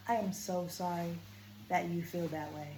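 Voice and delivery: firm, even, not unkind; boundary-setting. Shown as a demonstration. Coach setting a boundary with someone, calm and firm. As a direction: hold your line politely. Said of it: "So if I'm setting a boundary".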